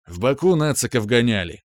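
plain reading voice

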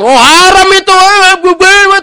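high, loud mocking imitation of a preacher; hammed-up hardliner crying haram. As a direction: lampoon the hypocrite with a shrill cry. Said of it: "garis keras".

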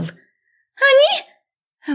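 very high shocked squeal. A narrator's reading. Student squealing at the sight.

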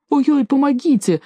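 high, whining cry for help; a frightened servant whining to be let go; whimpering servant. A narrator's reading. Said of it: "захныкал слуга".

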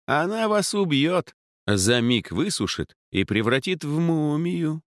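put-on lofty, sneering old mage; haughty mage voice. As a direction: look down on her with scorn. Arrogant mage speaking.

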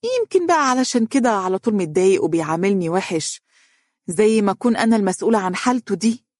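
high-pitched, hesitant fake shyness; stall, then confess with put-on embarrassment; feigned bashfulness. A narrator's reading. Daughter feigning shyness as she tells her mother about her husband. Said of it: "وتصنعت الخجل".

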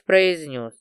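ordinary delivery

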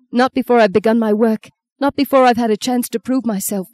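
panicked cry. Acted. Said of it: "He cried out".

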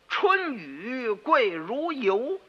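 slow recital. Acted. Boy recites poem slowly.

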